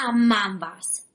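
slow gruff growl, lightly voiced; growling brute. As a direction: growl the catchphrase again. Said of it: "zavrčel".

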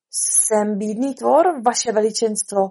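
slow, mildly quavering plea; trembling voice. Acted. Hatter humbles himself before the king, trembling. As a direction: let it tremble a little, drawn out. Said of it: "pronesl kloboučník třesoucím se hlasem".

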